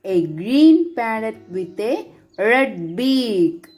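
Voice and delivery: put-on teacher reading a picture book to young pupils; story reading for children. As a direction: read it like a bedtime story for a class.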